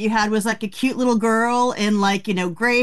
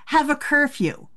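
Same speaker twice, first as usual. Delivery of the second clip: higher-pitched preteen whine through laughs; half-laughing, higher plea of a kid in trouble; mock teenage protest; 5 semitones higher than usual. Mock-teen protest about parents' rules.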